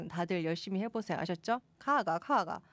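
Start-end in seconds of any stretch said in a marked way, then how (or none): 1.8-2.6 lilting Gyeongsang tones; Gyeongsang dialect. Shown as a demonstration. Host urging listeners to practise, Gyeongsang accent. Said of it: "가가, 가가는 갱상도 말인데".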